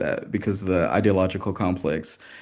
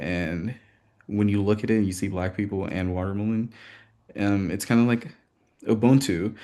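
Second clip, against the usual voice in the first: shaking voice. Real, not acted. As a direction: voice shaking with nerves, but firm. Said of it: "I'm sorry my voice is shaking".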